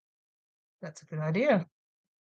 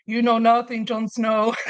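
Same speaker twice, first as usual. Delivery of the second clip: English accent from Game of Thrones, imitated; 2 semitones higher than usual. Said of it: "her accent was just that of Game of Thrones".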